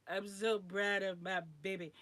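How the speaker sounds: proud mama blubbering loudly; mock happy crying. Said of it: "I'm crying".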